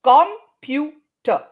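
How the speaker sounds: "computer" broken into COM, PU, TER; very slow, separated "computer"; syllable by syllable. Shown as a demonstration. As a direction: spell out each syllable of "computer". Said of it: "all the other syllables get pressed".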